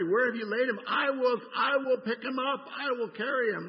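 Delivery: a preacher voicing Mary's tearful plea, high and loud; impassioned pleading. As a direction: cry out Mary's desperate plea to carry him. Grieving Mary pleads, preacher builds.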